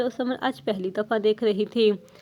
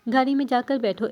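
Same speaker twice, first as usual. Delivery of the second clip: firm order; 4 dB louder, faster than usual. Acted. Husband orders wife after the fight.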